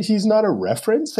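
high, stunned "he's not a reference"; incredulous retort. Retold or imitated. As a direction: act amazed he missed the obvious. Retelling shocked reply to client.

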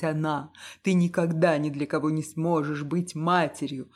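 angry accusations. Acted. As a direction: spit insults at her. Husband hurling insults at wife. (муж в ярости оскорбляет жену, громко)

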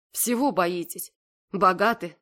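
ordinary delivery

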